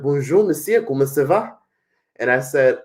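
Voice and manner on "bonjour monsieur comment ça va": taxi driver's greeting. Retold or imitated. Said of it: "he was like".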